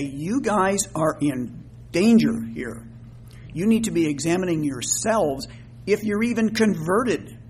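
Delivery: mildly exasperated warning, opening slowly; stern, slightly frustrated admonishment; frustrated minister. Acted. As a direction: warn the congregation with measured frustration. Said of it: "how frustrated Paul was with this".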